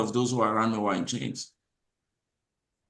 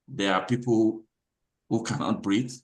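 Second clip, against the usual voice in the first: normal talking voice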